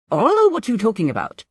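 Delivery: high, flustered denial; stammering. A narrator's reading. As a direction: stumble over the words. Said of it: "Peshin stammers".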